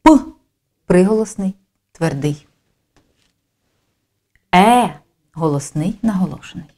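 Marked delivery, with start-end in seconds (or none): 0.0-0.2 П as one short, hard consonant sound; П popped out alone, crisply; isolated speech sound. Shown as a demonstration. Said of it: "Проаналізуємо звуки". 4.5-5.0 Е as a single held vowel; Е stretched for a phonics demonstration; isolated vowel sound. Shown as a demonstration. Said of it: "Проаналізуємо звуки".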